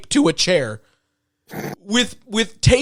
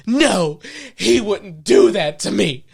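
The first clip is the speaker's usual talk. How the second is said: super dramatic; 3 semitones higher, slower than usual. Retold or imitated. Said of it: "Super dramatic".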